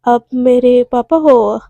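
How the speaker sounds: slow, halting, low-key greeting; lost for words. Acted. Daughter meeting her father, lost for words. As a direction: fumble for each word, hesitantly. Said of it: "उस बोल ही नहीं पा रही होती".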